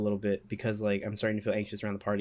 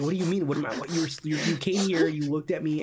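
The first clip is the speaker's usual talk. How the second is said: retold indignant protest, pitched up; sputtering, restarting in outrage; pissed off; 4 semitones higher than usual. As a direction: throw it back as an offended complaint. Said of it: "And I got pissed".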